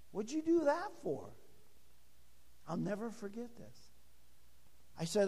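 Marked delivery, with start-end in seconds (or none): 0.1-1.3 higher-pitched imitation of a puzzled patient; lightly voiced woman patient, pitched up; depressed woman. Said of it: "Here was this depressed woman".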